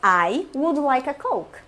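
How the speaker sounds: slow, courteous and measured order; well-mannered customer ordering a Coke politely; polite request. Shown as a demonstration. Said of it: "Outra, voltei".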